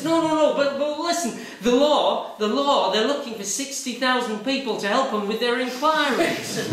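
imitating Squirrel's laughing joke. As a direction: deliver the punchline chuckling. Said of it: "He says".

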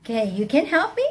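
mocking, questioning lion voice; scoffing storybook lion; incredulous lion. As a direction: question the little mouse in disbelief. Amused lion mocks the mouse's offer.

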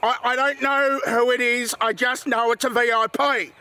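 put-on English-accented police chief. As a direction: explain like an English police officer. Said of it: "English accent, got it, right".

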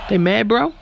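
a hint of Jersey Shore accent, mocking the angry racers; Jersey Shore bro. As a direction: tease them like a Jersey Shore guy. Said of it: "a guy from Jersey Shore".

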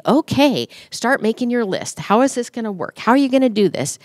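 busy Martha voice. Retold or imitated. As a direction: rattle off the to-do list like a fretful Martha. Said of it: "the Martha in me jumps right up".

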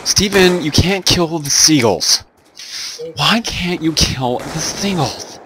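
high, slow camp whine; hammed-up camp voice. Doing a camp voice for Tristan about seagulls, lightly hammed up. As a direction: lay on a lightly camp lilt. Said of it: "Does that sound gay enough for you".

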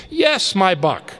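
put-on high, loud giddy old man; elated calling out. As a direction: call down to the street overjoyed. Scrooge delighted with the boy.

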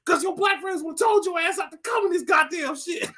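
roast him at full volume; hammed-up shouted rant; mock shouting. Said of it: "He's like".

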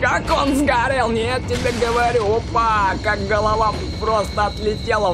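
excited gamer. Real, not acted. Excited about headshot.

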